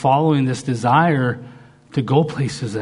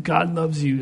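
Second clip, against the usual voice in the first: higher-pitched, held-back retold restraint; biting his tongue; 4 semitones higher than usual. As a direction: say it while swallowing the rest. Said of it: "he'd bite his tongue".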